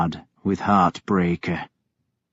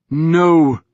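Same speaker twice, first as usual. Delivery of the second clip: a cold, final no; Ragnar's refusal; 5 semitones higher, 4 dB louder than usual. A narrator's reading. To dying Kjartan, a hard refusal. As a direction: refuse him flatly, higher. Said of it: "he said".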